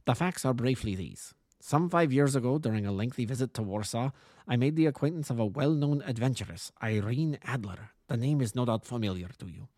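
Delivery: lightly voiced formal king with German accent; a touch of a harsh German-accented royal. King consulting the detective, lightly voiced German accent.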